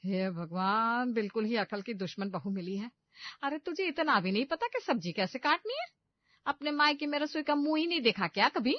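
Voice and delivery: mother-in-law yelling at the clueless bride; angry scolding. A narrator's reading. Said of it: "चिल्लाते हुए कहती है".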